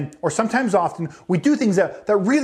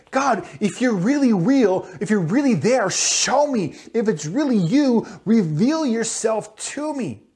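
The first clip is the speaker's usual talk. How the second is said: imitated seeking prayer; 3 semitones higher, slower than usual. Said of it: "pray something similarly like this".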